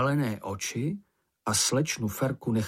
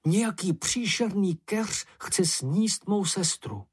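higher, slow, fearful voice of a little creature; terrified cry; 7 semitones higher than usual. A narrator's reading. Snork cries to Moomin that a bush eats his sister, afraid. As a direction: plead for help, blue with terror. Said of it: "modrý hrůzou a křičel".

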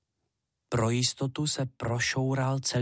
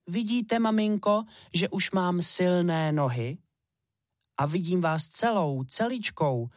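put-on higher, eager child boasting to mum; proud little hare pleading; 6 semitones higher than usual. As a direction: show off, then beg to come along.

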